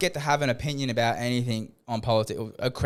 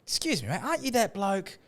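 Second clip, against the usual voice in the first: mock innocent; 10 semitones higher than usual. Confronting politician at gym.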